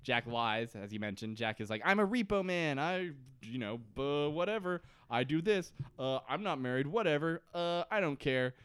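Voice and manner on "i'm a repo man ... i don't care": a lightly voiced bored repo man who shrugs everything off; repo man impression. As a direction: toss it off with mild indifference. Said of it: "Your repo man impression is really great".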